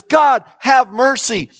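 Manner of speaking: a preacher voicing David's plea with some force; mock desperate cry for mercy. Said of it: "His cry for God is".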